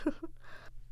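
soft little chuckle; quiet laugh. Real, not acted. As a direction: laugh lightly under the breath. Laughs after refusing to respond.

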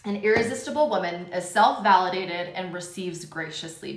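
talking right after a sip; words after sipping tea; sipping hot tea. Real, not acted. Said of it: "Let me sip my tea first".

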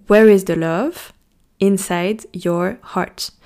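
put-on slow, sung-out English line with a French accent. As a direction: drawl it in French-accented English like a song quote. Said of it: "mon accent de patate chaude". (anglais avec un accent français, lent et chantant)

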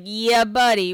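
lightly imitated party-guy catchphrase; playful mock greeting cheer; a hint of his rowdy hello; Steven's catchphrase. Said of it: "He's like".

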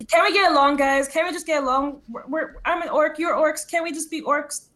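anxious in-character appeal; pleading. Acted. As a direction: plead with them to get along. Character pleads with hostile orcs.

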